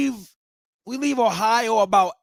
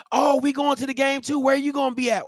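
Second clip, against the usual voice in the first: eager fan; 5 semitones higher than usual. Acted. Acted friendly chat between Southern fans.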